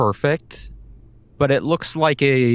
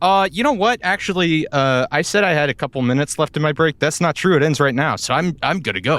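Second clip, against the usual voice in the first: higher, eager-to-escape brush-off; hasty excuse; 4 semitones higher, 3 dB louder than usual. Acted. Guard ditches the annoying rookie as his break ends, hasty excuse. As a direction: make a quick excuse and get away.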